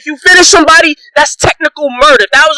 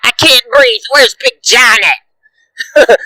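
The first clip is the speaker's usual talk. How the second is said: mocking Conor; much slower than usual.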